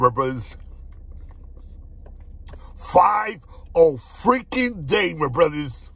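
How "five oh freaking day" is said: drawn-out excited shout; hyped shout. Real, not acted. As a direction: shout it out with hype. Hyped shout about the food.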